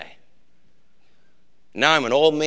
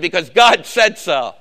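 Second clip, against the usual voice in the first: loud, slow, final; stern prophet answer; 6 dB louder, slower than usual. Retold or imitated. Prophet answers why, slow loud final word. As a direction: lay down the law, no arguing. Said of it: "The prophet does like a preacher does".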